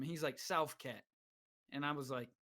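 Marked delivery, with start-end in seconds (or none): 0.4-1.0 imitated roommate. Roommate's answer about where he's from.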